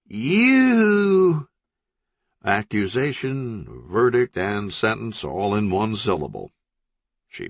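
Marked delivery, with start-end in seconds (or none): 0.1-1.5 a high, loud accusing shriek; furious yell. Acted. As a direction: hurl the single word like a verdict. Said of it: "looked at them and yelled".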